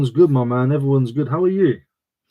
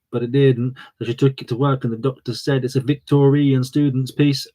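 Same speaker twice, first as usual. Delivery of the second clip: put-on Birmingham turning Welsh accent. Streamer telling a doctor's tale, accent slipping into Welsh. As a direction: put on Brummie, let it slide towards Welsh. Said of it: "start to sound Welsh".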